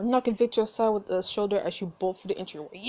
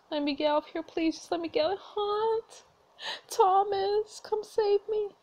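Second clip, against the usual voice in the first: frightened pleading; 11 semitones higher than usual. Acted. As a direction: beg for rescue in fear. Pleading as her trapped character.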